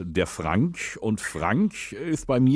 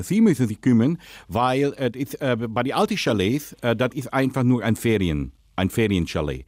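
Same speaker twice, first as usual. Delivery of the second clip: put-on Dutch accent, lisping. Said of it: "rede, lispeln und Holländisch".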